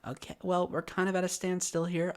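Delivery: soft, high, careful clerk voice; tactful patience. Retold or imitated. Clerk stuck with an unhelpful customer, tactful. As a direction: gently point out the problem without provoking her.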